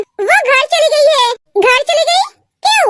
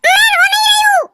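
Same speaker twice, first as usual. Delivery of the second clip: high-pitched, anxious phone exchange; worked-up; 4 semitones higher than usual. Acted. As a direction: raise the pitch with concern. Phone call, asks why she cries. (परेशान, ऊँचा सुर)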